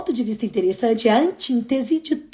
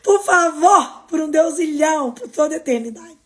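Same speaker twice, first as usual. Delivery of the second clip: mock plea; 3 semitones higher than usual. Begging the audience, hammed up.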